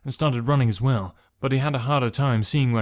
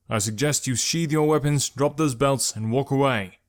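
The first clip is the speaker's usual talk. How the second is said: calling out; 3 semitones higher than usual. Acted. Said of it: "Malik called".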